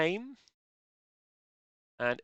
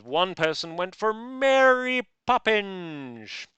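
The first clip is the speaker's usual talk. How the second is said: amused announcement; 7 semitones higher, 6 dB louder, much slower than usual. Real, not acted. Announcing amusing answer.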